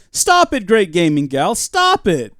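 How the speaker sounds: high, loud playful stop it; mock scolding. Real, not acted. Streamer mock-scolding a viewer, playful protest.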